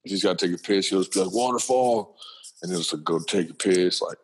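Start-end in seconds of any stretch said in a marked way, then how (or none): 1.3-2.2 lightly imitated small son, pitched up; a hint of a little boy's voice; cute little deep voice. Son announcing he has to pee, lightly imitated kid voice. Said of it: "cute little deep voice".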